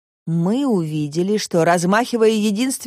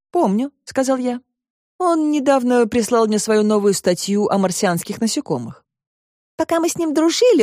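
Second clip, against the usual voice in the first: a lightly voiced girl, pitched higher; lightly voiced girl Alice; 7 semitones higher than usual. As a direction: speak it as a lively young girl. (слегка озвученная девочка, выше обычного)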